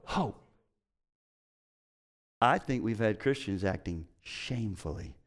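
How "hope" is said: drawn-out "hope" as a cue word; congregation cue. Shown as a demonstration. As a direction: leave "hope" hanging for them to say. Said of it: "say it".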